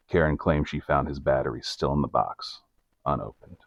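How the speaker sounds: measured storyteller's read; scripted narrator voice, evenly paced; documentary narration. A narrator's reading. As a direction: narrate the case like a true-crime report. Reads scripted case narration.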